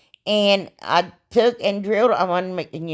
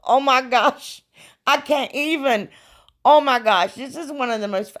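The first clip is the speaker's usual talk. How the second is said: thrilled laughing gush; 6 semitones higher than usual. Real, not acted. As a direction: burst out delighted at your own work. Thrilled showing finished project.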